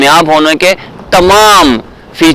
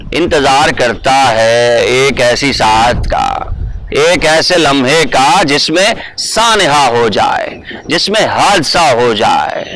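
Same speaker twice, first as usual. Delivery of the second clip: poem recitation; 3 dB quieter than usual. Acted. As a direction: let each line hang, recite it with feeling. Recites Iftikhar Arif poem. (ڈرامائی انداز میں نظم خوانی)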